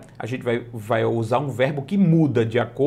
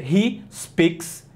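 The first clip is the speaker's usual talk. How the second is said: He speaks English said slowly and clearly; slow model sentence; much slower than usual. Shown as a demonstration. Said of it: "Então a frase é".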